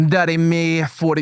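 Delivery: badly faked Scottish accent; attempted Scottish accent. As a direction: read names in a laboured fake Scottish. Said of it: "so Scottish accent?".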